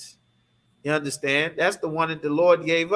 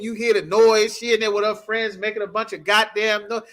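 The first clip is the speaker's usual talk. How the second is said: usual speaking voice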